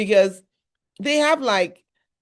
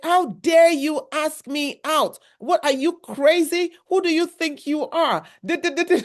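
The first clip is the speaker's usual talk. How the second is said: indignant outburst; 6 semitones higher than usual. Retold or imitated. Cook rebuffing the driver's date offer, mock indignant outburst. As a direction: play the cook snapping at the driver who asked her out. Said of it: "This woman flipped on him".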